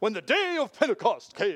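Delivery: darkened tone. Showing another way to deliver the same line, in a dark voice. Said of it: "or in the dark voice".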